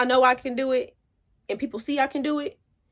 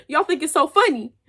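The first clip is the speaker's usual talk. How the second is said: indignant; 5 semitones higher, 4 dB louder than usual. Retold or imitated. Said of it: "I said".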